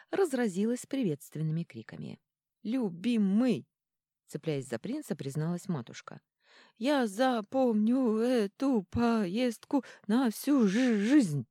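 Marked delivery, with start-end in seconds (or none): 2.6-3.7 frightened. A narrator's reading. Bride clings to prince. 6.8-11.5 slow, jolted, voice bouncing; words broken by bumps; shaken by jolts. A narrator's reading. Bride jolted on bumpy ride.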